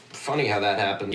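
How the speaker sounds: low, soft creepy aside; unsettlingly low muttered remark; odd, disturbing delivery. Real, not acted. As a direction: drop the pitch right down, disturbingly. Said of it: "why I said that like that".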